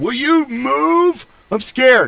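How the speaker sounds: play-acted very high yell, drawn out. Retelling a scared guy yelling at his girlfriend: imitating a man yelling. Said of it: "some dude yelling at his girlfriend".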